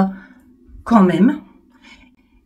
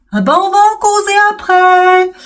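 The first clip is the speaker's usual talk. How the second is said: wry aside; 9 semitones higher, 4 dB louder than usual. Real, not acted. Wry aside about her pain.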